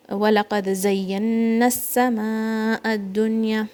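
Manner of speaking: fast melodic tajweed recitation; Quran recitation. Shown as a demonstration. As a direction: chant the verse for pupils.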